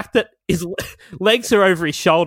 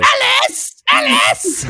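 calling out; slower than usual. Pretend. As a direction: yell her name across the house. Calling out to the maid.

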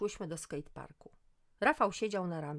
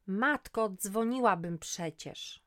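louder, slow groaning complaint; 3 semitones higher, 6 dB louder, slower than usual. Acted. Woman dragged from bath groans into the phone. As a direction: groan it out, put upon. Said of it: "stęknęłam do słuchawki".

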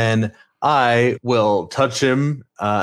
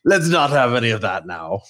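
Irish character voice found again; Irish accent; faster than usual. Acted. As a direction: settle into the Irish lilt. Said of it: "where's my character voice?".

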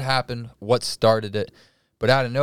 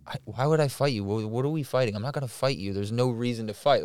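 level, unraised imitated voice; calm and reasonable; 3 dB quieter than usual. Storyteller voicing phone guy refusing to fight, calm and reasonable. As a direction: talk him down reasonably. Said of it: "being calm and reasonable".

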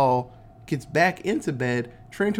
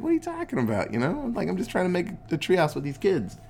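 pitched way up, whiny and confused; lightly cartoonish high voice protesting innocence; Ernest's goofy high voice; 5 semitones higher, faster than usual. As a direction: play the clueless Ernest squeaking back at her. Ernest answering the old lady.

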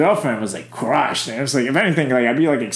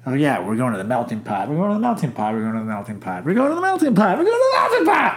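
mimicking excited boyfriend; faster than usual. Boyfriend's excited repeated boast.

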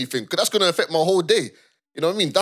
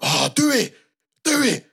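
mild mock shout; 7 semitones higher, 3 dB louder, slower than usual. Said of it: "he was just shouting a bit".

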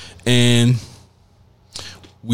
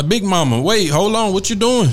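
pitched-up startled cry; mock alarm; 8 semitones higher than usual. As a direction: act shocked as it's snatched. Acting out Bible snatched away.

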